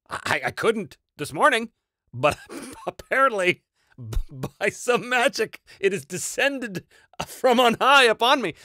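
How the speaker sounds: slow, high, grandiose South African voice; South African accent. Retold or imitated. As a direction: proclaim it slowly in a Joburg accent. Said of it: "You can do that accent?".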